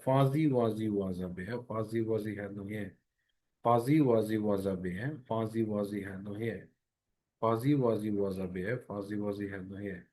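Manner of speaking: Fuzzy Wuzzy said slowly, buzzing each z; slow tongue twister. Shown as a demonstration. Teacher slowly models the z tongue twister. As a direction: read the rhyme slowly, z humming. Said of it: "বারবার বলতে হবে".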